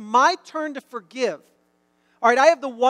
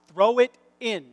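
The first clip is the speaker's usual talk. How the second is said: louder, insistent retold call; voice getting louder; 5 dB louder than usual. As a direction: raise the voice, short of yelling. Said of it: "now my voice is getting louder".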